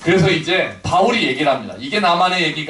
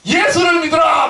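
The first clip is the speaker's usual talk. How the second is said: preaching shout, much higher and louder; bold proclamation; 10 semitones higher, 3 dB louder than usual. Retold or imitated. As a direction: proclaim it to three thousand people. Peter preaching to crowd.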